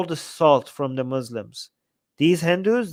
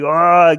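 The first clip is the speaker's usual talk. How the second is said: mock angry roar; 7 dB louder than usual. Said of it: "be like".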